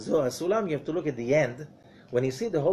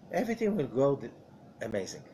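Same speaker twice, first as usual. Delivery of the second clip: normal talking voice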